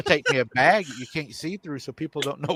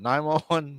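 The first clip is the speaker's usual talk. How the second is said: "Nine one one" pitched up, as one option; torn deliberation; 3 semitones higher than usual. Retold or imitated. Weighing whether to call police.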